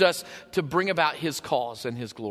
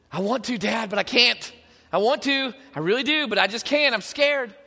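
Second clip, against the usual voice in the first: put-on scared child; 4 semitones higher, 3 dB louder than usual. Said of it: "they're scared to death".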